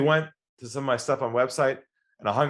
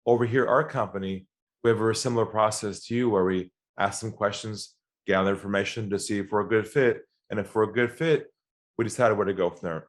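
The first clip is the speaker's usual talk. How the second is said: calm low voice; 4 semitones lower than usual. Retold or imitated. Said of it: "lowered my voice".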